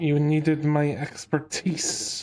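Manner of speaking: slow, pointed words forced through gritted teeth. Voicing the doctor as he arrives: pointed, forced through gritted teeth. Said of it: "he forces the words out, ... through his teeth".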